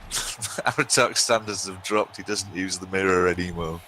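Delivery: reading out through real laughter; laughing. Real, not acted. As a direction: try to get the words out while laughing. Reads chat joke while laughing.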